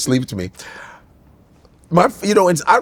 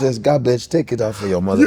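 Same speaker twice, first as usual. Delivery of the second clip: Nigerian father; 5 semitones lower than usual. Retold or imitated. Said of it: "My father said".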